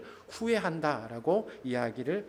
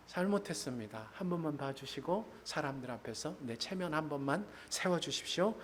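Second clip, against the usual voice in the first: quiet pleading Saul; 7 dB quieter than usual. Retold or imitated. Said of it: "이렇게 이야기하는".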